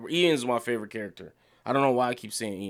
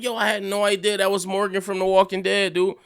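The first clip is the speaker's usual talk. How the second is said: high and loud, still stunned; excited disbelief; 9 semitones higher, 7 dB louder than usual. Retold or imitated. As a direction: relive the moment the penny dropped. Retold disbelief at the actor.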